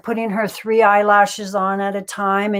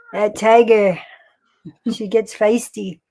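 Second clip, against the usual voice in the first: Stu Hart impression. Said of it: "I love your Stu Hart impression".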